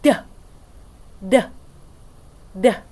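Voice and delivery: short voiced "Duh" taps, tongue at the teeth; letter D sound. Shown as a demonstration. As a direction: tap out "Duh" with voice on. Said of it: "sounds like this".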